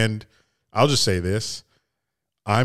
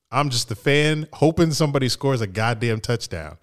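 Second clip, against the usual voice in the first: ordinary talk, nothing marked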